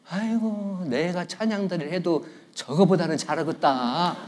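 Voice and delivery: mildly mock a member's private grumble; grumbling self-regard. Preacher voices a member eyeing the choir, quiet smug grumble.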